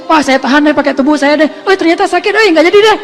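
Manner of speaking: hammed-up cowardly retreat; mock brave then chickening out. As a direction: start bold, then squeak out of it. Pretend brave then backing out.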